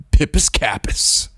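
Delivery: breathy whispered made-up words; 숨소리로 속삭이듯 말하기; whispered try. Real, not acted. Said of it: "And I spoke aloud".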